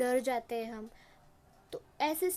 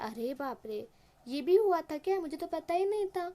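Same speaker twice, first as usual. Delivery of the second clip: loud, high-pitched fake shock; mock astonishment; 4 semitones higher, 3 dB louder than usual. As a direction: overplay the surprise to mock her. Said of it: "मतलब जैसे कि बहुत ही बड़ी बात हो गई हो". (अरे बाप रे वाली बनावटी हैरानी, ऊँचे सुर में)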